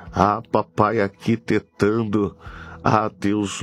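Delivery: ordinary talk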